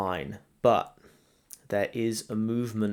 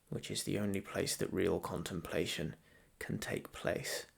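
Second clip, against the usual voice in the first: calm meditation guide, growing softer, long pauses between phrases; guided meditation; 4 dB quieter than usual. Real, not acted. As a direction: ease the listener gently into stillness, leaving space to breathe.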